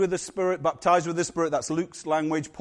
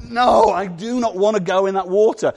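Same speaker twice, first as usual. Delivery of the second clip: mock cat refusing; 7 dB louder than usual.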